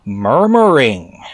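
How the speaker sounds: slow, drawn-out mock elder; imitating an elder preacher. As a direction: stretch the word out like an old church elder. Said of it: "one of the elder dudes who talks like this".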